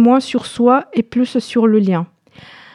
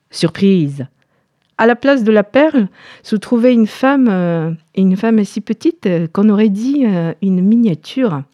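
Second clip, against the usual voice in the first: story narration. A narrator's reading. Tells the fairy tale.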